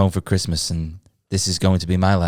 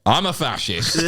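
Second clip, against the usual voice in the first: mock fascist announcement; 4 semitones higher than usual. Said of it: "for the listener".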